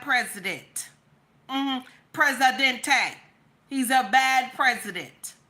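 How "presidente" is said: Presidente drawn out syllable by syllable; playful Presidente. Pretend. Mocking the president's title, drawn-out Presidente. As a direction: stretch Presidente into four slow beats.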